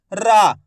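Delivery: रा with the aa held long; drawn-out syllable. Shown as a demonstration. Teacher picking out the first sound, रा drawn out. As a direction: stretch रा out for the listener. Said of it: "रा का उच्चारण खींच को".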